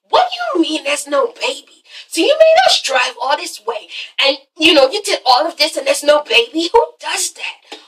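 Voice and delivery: lightly voiced sassy outrage; a hint of offended diva; mock indignant. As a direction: Mimi scolding her for the fake baby. Voicing Mimi's outrage.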